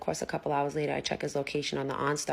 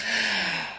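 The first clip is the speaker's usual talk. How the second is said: loud, heavy exhale; acted big sigh; 6 semitones higher, 4 dB louder than usual. Woman caught overreacting after the call, acted sigh. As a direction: let out an exaggerated breath.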